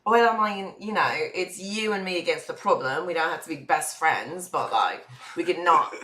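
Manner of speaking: put-on understated British-accented negotiation. Passenger proposing a truce between spies, British accent. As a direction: reason with them in a British accent. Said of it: "Because we're both British".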